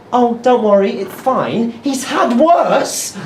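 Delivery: a light breezy mum, slowing down at the end; airy mum voice. Retold or imitated. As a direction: brush it off like an unbothered mum. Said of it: "the mum actually said to me".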